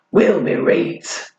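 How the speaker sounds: slow, proud mock northern "reet"; deliberate northern twang; northern dialect. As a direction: savour the Yorkshire "reet", slowly. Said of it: "I've clearly mastered dialect".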